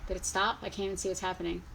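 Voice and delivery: ordinary delivery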